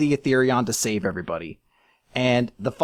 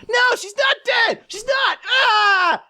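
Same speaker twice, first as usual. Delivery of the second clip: very high mock-hysterical shouting; Natsu; 4 dB louder, slower than usual. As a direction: yell in adamant denial, ending in a scream. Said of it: "adamantly being like".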